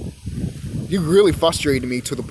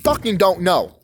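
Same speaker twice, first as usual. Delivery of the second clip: mock defiant outburst; 3 semitones higher than usual. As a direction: play the scornful student telling the teacher off. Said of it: "be like".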